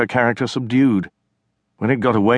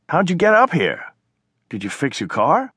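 indignant sister; 8 semitones higher than usual. Acted. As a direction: protest the stolen water, annoyed. China questions her brother.

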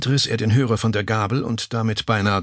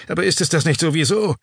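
pressing back; 8 semitones higher, 3 dB louder, faster than usual. Acted. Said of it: "stieß Gärtner nach".

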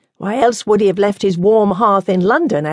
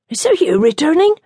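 nun voice; 9 semitones higher than usual. Acted.

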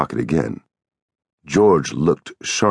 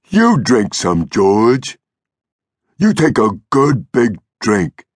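higher, simple, delighted figure voice; eager Lennie; 7 semitones higher, 4 dB louder, slower than usual. A narrator's reading. Lennie urging George to drink, eager. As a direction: urge it with childlike eagerness.

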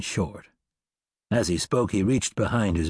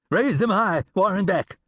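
sudden, higher shout of a gunman; shouted command; 10 semitones higher than usual. A narrator's reading. Gunman ambushing Beck on the trail, shouting. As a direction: bark it out to freeze him. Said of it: "a voice shouted".

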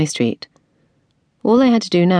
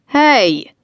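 loud, higher angry yell from afar; unamused yell; 8 semitones higher, 4 dB louder than usual. A narrator's reading. Car owner yelling at Tilly, annoyed. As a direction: call out sharply from up the street. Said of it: "yelled an unamused male voice".

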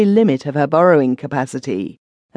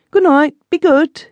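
much higher put-on voice, teasing; cheeky groom; 13 semitones higher, 5 dB louder than usual. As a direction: toss it off lightly, flirting back.

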